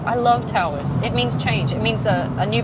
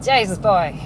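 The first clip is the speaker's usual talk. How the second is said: loud mock Irish exclamation; Irish accent; 7 dB louder, slower than usual. Shown as a demonstration. Playing at swearing at the kids, loud Irish accent. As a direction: scold a boy in playful Irish. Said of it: "That's my Irish coming out".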